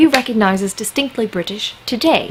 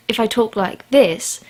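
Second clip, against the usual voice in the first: British accent. Shown as a demonstration. Showing viewers which accent fascinates Americans, posh British accent. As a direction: switch into a careful British accent. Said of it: "anyone with a British accent is".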